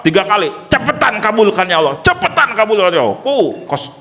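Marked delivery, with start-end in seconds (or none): 0.7-3.2 quick, pushy plea; a lightly hammed-up impatient prayer; mock demanding prayer. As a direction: hurry God along like giving orders. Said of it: "kayak nyuruh-nyuruh Allah gitu".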